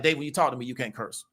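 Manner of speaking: patient, even explanation; calmly explained. Retold or imitated. Mother calmly telling David he can't curse with her, soft and low. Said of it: "She just really calmly explained to me".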